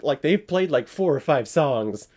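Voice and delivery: lightly acted disappointed ticket holder; mildly put-out fan, pleading and questioning; let-down audience member. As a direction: complain like a short-changed concertgoer, half in jest. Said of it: "If I was the audience member".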